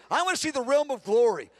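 eager prayer to see glory; fervent prayer. Shown as a demonstration. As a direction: plead with rising passion. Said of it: "I say".

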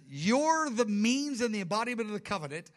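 the Father commissioning the Son, exalted and loud; commanding Father voice. Acted. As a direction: hand over the covenant with authority. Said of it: "He says".

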